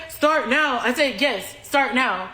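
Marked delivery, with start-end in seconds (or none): 0.1-0.8 imitating a pestering man's puzzled query; questioning echo. Pestering man echoes her demand. 1.2-2.3 slow, emphatic retort; firm confirmation. Retold or imitated. Repeats demand to pestering man.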